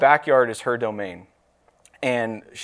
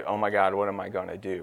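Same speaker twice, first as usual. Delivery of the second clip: mock panicked whimper; 4 semitones lower, 7 dB quieter than usual. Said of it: "curl up in the fetal position and say".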